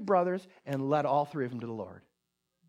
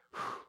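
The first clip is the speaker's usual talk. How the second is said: blown-out sigh of nerves; nervous whew; 9 dB quieter than usual. Retold or imitated. Evangelist bracing to go out on the streets, nervous whew. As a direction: puff out air to brace yourself.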